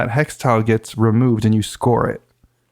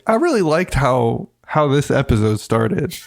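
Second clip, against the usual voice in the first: passive aggressive. Retold or imitated. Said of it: "very passive aggressively".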